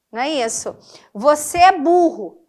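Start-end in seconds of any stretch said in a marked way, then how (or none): 1.1-2.4 blunt insult. Shown as a demonstration. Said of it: "que é feio falar isso".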